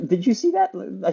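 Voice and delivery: high laughing disbelief. Real, not acted. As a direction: laugh it out, amazed and loud. Arrows bounce off, laughing.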